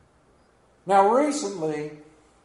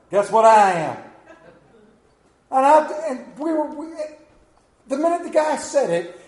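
loud and laughing at himself; 8 semitones higher, 6 dB louder than usual. Real, not acted. Pastor admitting to the church he's a hillbilly, laughing. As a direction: laugh through the confession. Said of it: "laughing at himself".

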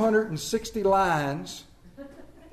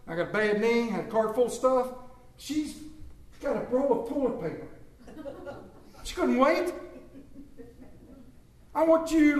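mock vengeful prayer; 3 semitones higher, 4 dB quieter than usual. Shopper begging the Lord to punish the line cutter, whiny mock prayer. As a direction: pray for revenge like an aggrieved child. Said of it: "We want the Lord to smite 'em".

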